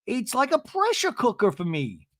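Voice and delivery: high mock Gina complaint, slowing at the end; imitating Gina. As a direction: whine it high and stretch the last lines. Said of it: "she says".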